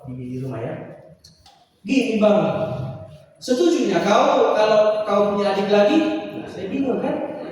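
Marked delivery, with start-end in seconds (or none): 1.8-6.0 a louder caller asking; mother asking her son on the phone. Retold or imitated. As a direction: call him "Bang" and press for an answer. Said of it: "saya ditelepon".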